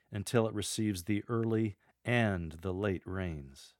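EARLY, pause, AND stressed, the rest drawn out slowly. Shown as a demonstration. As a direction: pause after EARLY, then stress the word AND. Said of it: "use a pause after the word early, then stress the word and".

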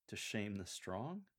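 slow, with "strong" rising like a question; puzzled italics on strong. Shown as a demonstration. Coach demonstrates the verse for lectors, puzzled stress on "strong". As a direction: stretch and lift "strong" in mild puzzlement. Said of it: "emphasis connoting a touch of puzzlement".

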